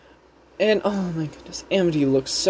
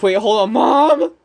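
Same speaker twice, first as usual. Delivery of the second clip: imitated protest to mom; 4 semitones higher, 5 dB louder than usual. Acts Amity protesting to her mom.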